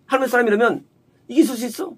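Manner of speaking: mildly reproachful question; imitated blaming. Woman reproaching the man of God, mildly blaming. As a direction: blame him, as a quoted complaint. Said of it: "탓하는 거예요".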